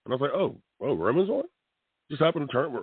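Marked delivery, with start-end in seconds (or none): 0.3-1.4 retold surprised question, rising higher at the end; acting out his own surprise at the TV; mock surprise. Wrestling fan catching Roman on TV, lightly surprised. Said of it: "I was a little surprised".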